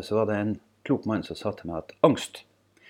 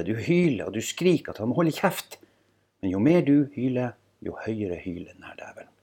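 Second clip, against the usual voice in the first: dramatised column reading. Acted. Speaker shares own column on anxiety with listeners, dramatised reading. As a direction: perform the column with deliberate, dramatic phrasing.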